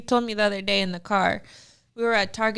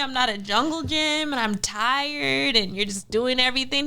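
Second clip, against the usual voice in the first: retold motherly complaint, pitched up; exasperated mom; 4 semitones higher than usual. Mom explaining to her son why she yells, mildly exasperated. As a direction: list grievances to a small child.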